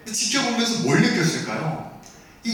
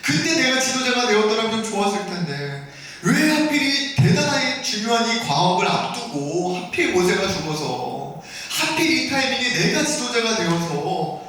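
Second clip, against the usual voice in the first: anxious inner voice; 4 semitones higher than usual. Acted. Joshua fretting over leading after Moses died, anxious inner voice. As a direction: think aloud as a worried successor. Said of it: "그런 두려운 마음들이".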